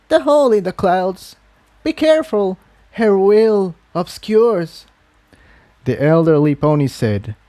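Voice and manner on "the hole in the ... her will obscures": put-on higher old mare, slowing at the end; old mare gives a cryptic warning; ominous warning.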